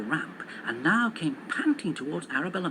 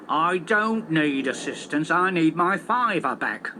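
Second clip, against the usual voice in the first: slow, mildly louder growl; 4 dB louder, slower than usual. Acted. Taxi driver growling at the ticket machine about his fiver. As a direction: grumble it through the teeth. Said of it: "growled Mister Jones".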